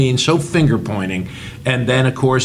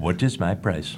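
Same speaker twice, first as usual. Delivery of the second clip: low mock voice; 7 semitones lower, 7 dB quieter than usual. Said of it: "mocking the customer".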